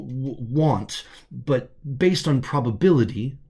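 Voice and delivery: lightly voiced hesitant stutter on the first sounds; a hint of a nervous, kind companion; stuttering pal. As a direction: catch on each first letter, gently. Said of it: "a stuttering, gender-neutral, compassionate entity".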